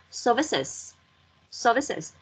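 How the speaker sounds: "services" with both final s sounds heard; plural final sounds. Shown as a demonstration. Teacher modelling the plural ending, "services" with clear final -siz. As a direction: finish "services" on a full extra -siz syllable. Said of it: "đọc thành số nhiều thì em phải đọc nó là".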